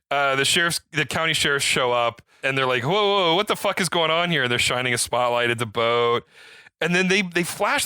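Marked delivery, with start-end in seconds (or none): 2.8-4.4 retold yell. Sheriffs arrive at boat.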